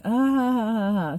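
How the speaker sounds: put-on "ah ha ha ha"; mock laughter. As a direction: act out their laughing at you. Retells how they reacted.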